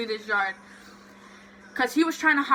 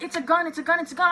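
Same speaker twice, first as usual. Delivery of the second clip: higher, mildly panicked cry; mock panicked scream; 6 semitones higher, much faster than usual. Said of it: "they're all screaming".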